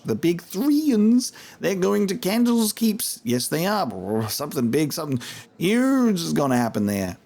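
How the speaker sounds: a hint of a scrappy street accent; Husam's rough accent. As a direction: informant greeting the mercenaries, rough accent. Voices Husam.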